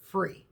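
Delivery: pause, then free on its own; stress on free. Real, not acted. Reminding viewers what the house cost, stress on free. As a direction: hold back, then set free apart. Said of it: "Emphasis on free".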